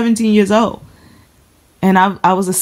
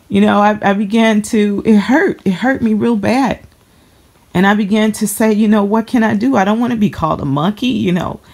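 holding back tears; 4 semitones higher than usual. Real, not acted. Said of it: "I'm trying not to cry".

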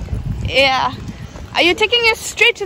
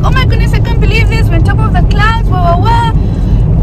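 mock excited kids, higher and louder; kids' excitement; 7 semitones higher, 7 dB louder than usual. Mom imitating her excited kids above the clouds. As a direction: squeal it like the thrilled kids. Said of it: "They're like".

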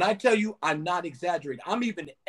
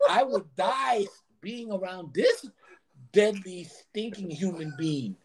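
mimicking the manager; 3 semitones higher than usual. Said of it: "He said".

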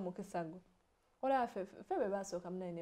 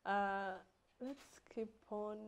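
emotional. Real, not acted. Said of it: "I'm so emotional".

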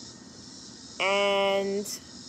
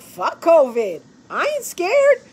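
mock tough talk; 9 semitones higher, 8 dB louder, slower than usual. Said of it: "where you're like".

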